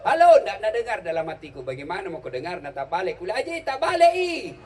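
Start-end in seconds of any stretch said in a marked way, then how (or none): 0.1-0.4 high, loud halo with a laugh; shouting. Retold or imitated. 3.4-4.6 high, louder call to the haji. Retold or imitated. Calling out to the haji.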